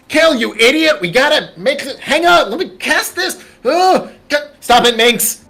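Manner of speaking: high, loud, flustered shouting; the wizard screams at his reckless ally; frantic yelling. Acted. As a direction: yell at them while the spell fails. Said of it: "and goes".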